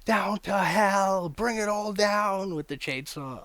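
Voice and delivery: high, loud, slow manic villain voice; mock villain bellowing he will bring it down to hell; imitating an over-the-top villain. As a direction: ham it up like a raving chainsaw killer. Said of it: "he's so over the top".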